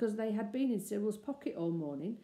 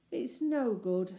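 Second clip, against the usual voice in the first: slow, dejected sigh of a line; deep dejection; 3 semitones higher, 4 dB louder, slower than usual. Acted. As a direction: give up, slow and downcast. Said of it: "said Robert in deep dejection".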